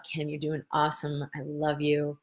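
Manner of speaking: soft, quiet self-reassurance; gentle self-talk. Retold or imitated. Talking herself through the hurt, softly reassuring. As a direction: soothe yourself gently and softly. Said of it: "I just said to myself".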